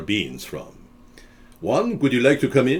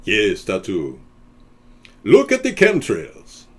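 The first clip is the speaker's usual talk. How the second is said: Ricardo Montalban; 3 dB louder than usual. Retold or imitated. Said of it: "Ricardo Montalban".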